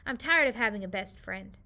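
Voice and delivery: put-on child rebuffing friend; fed up. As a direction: throw it back at her. Hannah rebuffing Lizzie.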